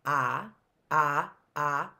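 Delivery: "ah" as a lone short O vowel, evenly spaced; short O sound. Shown as a demonstration. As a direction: isolate each "ah" like a phonics teacher. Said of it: "as in bot".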